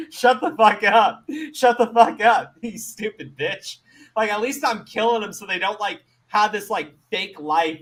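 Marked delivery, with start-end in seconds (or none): 0.1-2.5 angry retort. Retold or imitated. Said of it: "I'm like". 2.6-3.8 retort to vegans. Retold or imitated. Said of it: "I'm like".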